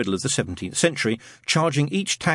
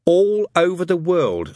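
put-on higher, louder and slow boy's voice; firm; 8 semitones higher, 5 dB louder, slower than usual. A narrator's reading. Boy assures doubting friend about the tunnels, firmly. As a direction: declare it with each word drawn out. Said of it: "said Adam firmly".

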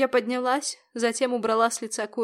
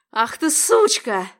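slow, loud snarl, a bit higher; barked curse; 4 semitones higher, 6 dB louder, slower than usual. A narrator's reading. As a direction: spit the insult out slowly and hard. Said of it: "рявкнул он".

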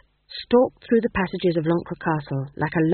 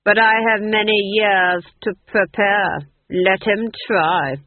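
slow, louder, contemptuous; mocking dismissal; 6 dB louder, slower than usual. The Duke dismissing the child's challenge, contemptuous. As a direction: wave the threat away with contempt. Duke's voice in the story.

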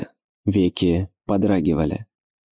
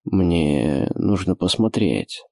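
slow, slightly justifying; apologetic; 3 semitones lower, much slower than usual. Acted. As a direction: say it as if excusing yourself. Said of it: "как бы оправдываясь".

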